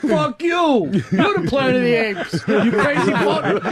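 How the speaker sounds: high-pitched mock yell; imitated yelling. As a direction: yell like a raving friend, without real volume. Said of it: "And then he's yelling".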